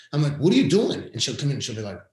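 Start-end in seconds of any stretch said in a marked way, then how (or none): 0.4-1.1 high, loud shouted question; retold calling out. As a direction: call it out to the next room, pitched way up. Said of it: "I yell out there to her".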